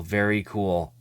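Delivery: whispered very cool. Shown as a demonstration. Collector savoring the card, whispered. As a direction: breathe very cool softly.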